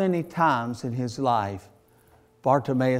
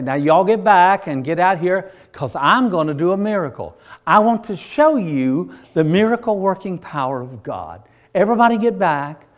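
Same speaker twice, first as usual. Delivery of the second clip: showy miracle worker; 5 dB louder than usual. Acted. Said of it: "put on a show".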